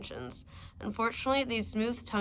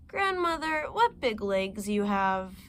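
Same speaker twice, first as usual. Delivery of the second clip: put-on wondering little girl; slower than usual. Girl's wondering question.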